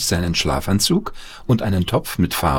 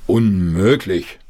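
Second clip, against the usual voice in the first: slow, stern scolding; a father telling off his son; mild stern scolding; slower than usual. A narrator's reading. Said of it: "schimpfte der Vater".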